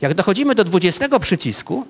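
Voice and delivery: normal talking voice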